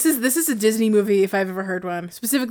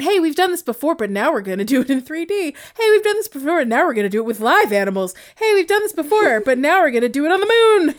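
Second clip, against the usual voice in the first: mock studio exec; 5 semitones higher than usual. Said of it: "so let's tell them".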